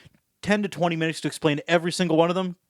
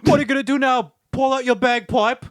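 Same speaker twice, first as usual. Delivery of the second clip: bad Scottish accent; 8 semitones higher, 4 dB louder than usual. Heckler taunting the fake Scot, bad Scottish accent. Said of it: "what does that sound like".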